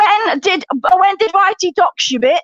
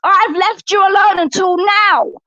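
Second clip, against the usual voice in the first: angry shout. Real, not acted. Heated live stream row.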